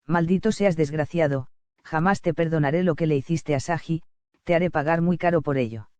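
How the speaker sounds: put-on high, soft-spoken furious girl voice; a high girl voice swearing revenge; vengeful young woman. Sona vows revenge on the priest.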